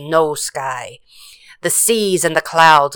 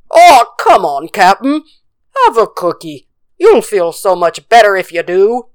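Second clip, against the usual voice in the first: coaxing; 3 semitones higher, 5 dB louder than usual. Acted. Crew coaxes the captain.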